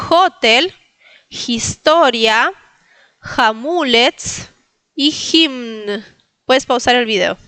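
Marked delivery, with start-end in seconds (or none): 0.1-6.0 hotel, historia, hamulets, himn, each with h like j; slow, separated list "hotel, historia, hamulets, himn"; Polish model words. Shown as a demonstration. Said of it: "te lo repito". (palabras polacas modelo, hache como jota)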